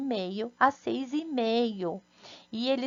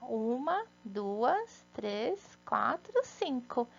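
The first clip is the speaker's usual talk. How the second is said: counting syllables aloud; 4 dB quieter, slower than usual. Shown as a demonstration. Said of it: "Vamos contar".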